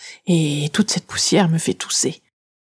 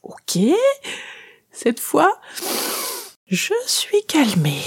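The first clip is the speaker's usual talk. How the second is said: 1 mock soothing; 9 semitones higher, slower than usual. A narrator's reading. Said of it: "elle tente d'apaiser ma fureur".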